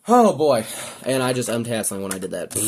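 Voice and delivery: breathless after transforming the toy; winded, catching breath between words. Real, not acted. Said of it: "I'm out of breath".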